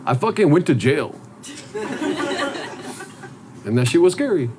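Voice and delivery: put-on short, halting lines in a Latino accent. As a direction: speak in a laid-back Latino accent. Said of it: "it's the Latino voice here".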